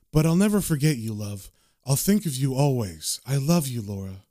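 low, understated tenderness; loving. Retold or imitated. Ghost husband promises to remember his wife, gently loving. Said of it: "he looks down lovingly and says".

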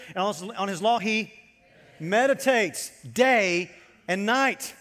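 slow, drawn-out unison recitation; reading aloud together. Real, not acted. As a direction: lead the congregation through the verse slowly. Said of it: "Let's say it, everybody together".

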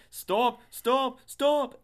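high, loud comic cries; hammed-up imitation of a panicked yell; mock screaming. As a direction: squawk it out as a silly impression. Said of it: "I don't think he sounded like that".

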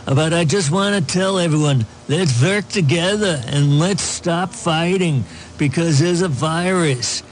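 put-on a light Austrian Schwarzenegger accent. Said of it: "for a governor accent".

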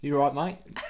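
casual Australian check-in on the phone; Margot Robbie. Acted. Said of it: "your Australian accent kinda slipping".

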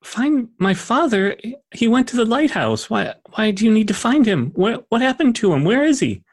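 a lightly voiced worried child, starting in a whisper; anxious young girl.

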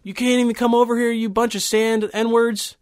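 mock racist rant. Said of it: "He was like".

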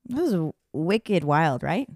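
put-on Boston accent; playful Boston townie talk. Cohost raving about the show afterwards, in a Boston accent. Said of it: "I just love that accent".

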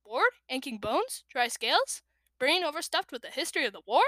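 ordinary delivery, nothing marked

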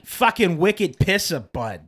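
slow, drawn-out Boston swagger, high then dropping; not-great Boston accent. Acted. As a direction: ham up a Boston accent, slowly. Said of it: "Mine's not great either".

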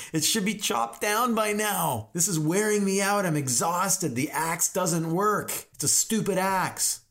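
high, drawn-out hammed-up complaint; put-on exasperated whine; mock whining. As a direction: blame the tool like a sulky kid. Acts exhausted chopper blaming axe.

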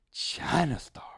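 high, loud put-on punchline; imitated gleeful friend. Friend revealing where his check went, high mock-gleeful reveal. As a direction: pop it out high and proud.

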